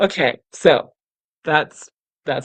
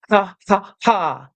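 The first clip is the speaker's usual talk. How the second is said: belly ha; 3 semitones higher, slower than usual. Shown as a demonstration. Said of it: "something you do to activate your singing muscles".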